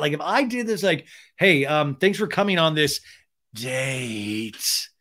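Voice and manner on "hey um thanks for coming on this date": lightly creepy drawn-out invite; creepy imitation. Shown as a demonstration. Imagining himself asking, lightly creepy tone. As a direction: make it sound a touch creepy. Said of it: "I'm even doing it creepy on the imitation".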